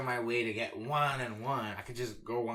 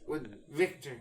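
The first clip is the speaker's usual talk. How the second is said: raised, slow, loud official announcement; government official; 7 semitones higher, 7 dB louder than usual. Acted. Government confronting the comedian over a joke, mock-official announcement. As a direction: announce it higher, louder and slower, like an official.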